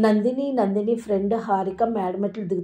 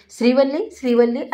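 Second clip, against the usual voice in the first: calling out; 3 semitones higher, 4 dB louder than usual. Retold or imitated. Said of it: "అని పిలుస్తాడు".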